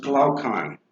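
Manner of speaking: Glaucon said clearly as a model; pronunciation demo. Shown as a demonstration. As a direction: show students how Glaucon is pronounced. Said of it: "that is pronounced".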